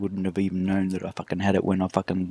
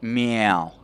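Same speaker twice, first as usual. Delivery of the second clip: meow. Shown as a demonstration. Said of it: "you gotta say".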